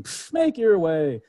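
put-on slow, scoffing mother brushing off her kids; Mother Nature dismissive. Nature dropping off her kids, slow scoffing brush-off. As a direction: let the pfft drop, careless and slow.

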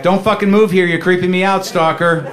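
fake-furious reading of his text; mock angry text. Him texting his stalker girlfriend, mock angry.

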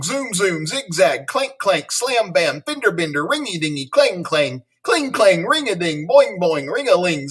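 high, rapid-fire chant of sound words; breathless word torrent. Acted. Teacher Miss Bell bursting out with silly words, excited chant. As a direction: rattle them off in one breath. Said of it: "took a deep breath".

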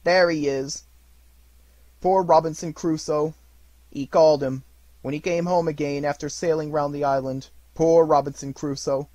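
high, loud, overjoyed rush of memories; between laughing and crying. A narrator's reading. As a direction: gush like a delighted child. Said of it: "voice between laughing and crying".

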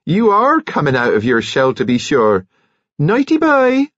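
high, sing-out nurse's farewell; delighted. A narrator's reading. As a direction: tease with delight, soaring at the end. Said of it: "cried Nurse Kettle delightedly".

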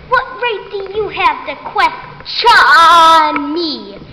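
indignant retort. Acted. Ribbits refuses questioning, slow haughty challenge. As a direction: demand it slowly, offended.

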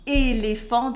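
"éléphant" with both É sounds kept; full French vowels. Shown as a demonstration. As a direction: say "éléphant" as "é-lé-fan". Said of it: "you cannot shorten it".

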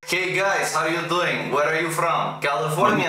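casual greeting in a fake Russian accent; put-on Russian accent. Pretend Russian greeting strangers on Omegle, Russian accent. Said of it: "I put on my best Russian accent".

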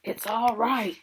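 high, loud, joyful call; excited shout. A narrator's reading. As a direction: shout out the good news. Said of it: "he was shouting".

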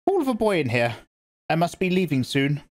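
put-on grave old priestess speaking; stern old Reverend Mother. A narrator's reading. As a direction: lecture her like a severe elder. Old woman commands.

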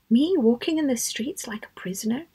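lightly incredulous question; mild disbelief. Retold or imitated. Zainab told she will be a prisoner, mildly incredulous. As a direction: question it as if unable to comprehend. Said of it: "She couldn't comprehend it".

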